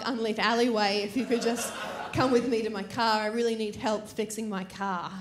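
a hint of a sweet-talking stranger; lightly voiced polite creep. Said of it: "He's like".

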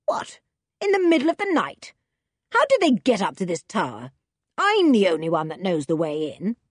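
a startled man who can't believe it; lightly voiced surprised villain; taken aback. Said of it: "taken aback".

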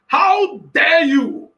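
slow, stern rebuke; voicing God. Preacher as God, rebuking the congregation. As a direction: demand it slowly, as God. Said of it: "He's saying".

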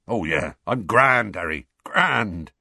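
slow, heavy giant's voice, forced cheer; a big sad man pretending he is fine; gloomy Hagrid. A narrator's reading.

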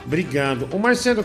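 ordinary talk

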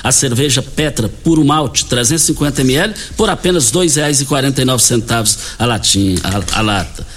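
punchy supermarket promo pitch; hard sell ad. Acted. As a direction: push the deals, sell hard. Host pushes supermarket promotions.

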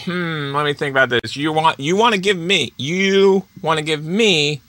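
a hint of a smug dealmaker; totally cool. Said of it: "He was totally cool. Like, he's like".

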